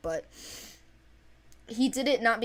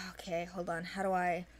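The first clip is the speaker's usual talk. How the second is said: whispered aside; 7 dB quieter than usual. Real, not acted. Mutters to self while thinking.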